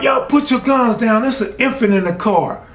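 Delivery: high, urgent retold yell; retold yelled orders. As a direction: bark it like a police chief, retelling it. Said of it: "I'm yelling out orders like I'm the police chief".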